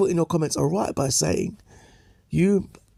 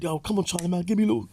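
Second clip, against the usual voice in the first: lightly voiced Charlie Sloth; 5 semitones higher than usual. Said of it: "he said".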